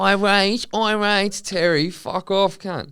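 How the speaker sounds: put-on high-pitched drunken indignation; irate patron. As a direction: throw the word back, outraged and squawking. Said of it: "there seems to be an irate patron".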